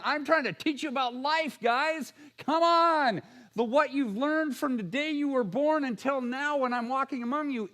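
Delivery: pleading teacher. Acted. Jesus voiced pleading with disciples.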